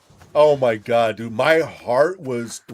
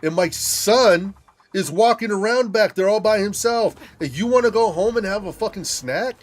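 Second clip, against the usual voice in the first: outraged disbelief; 8 semitones higher than usual. Retold or imitated. Son ranting at mom's snack request, outraged. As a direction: tear into her for wanting a snack.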